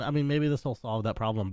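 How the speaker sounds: usual speaking voice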